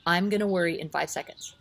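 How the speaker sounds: words said on a held breath; holding breath. Shown as a demonstration. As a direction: speak while holding your breath. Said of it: "and you hold your breath".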